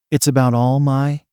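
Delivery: breaks off after "My"; voice catching. A narrator's reading. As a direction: let "All My" catch, cut short of the full name. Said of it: "her voice caught in her throat".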